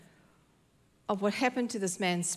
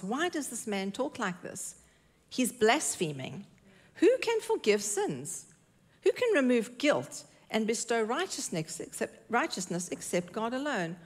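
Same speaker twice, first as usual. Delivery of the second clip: lightly voiced shocked scribes; indignant scribes. Scribes questioning Jesus.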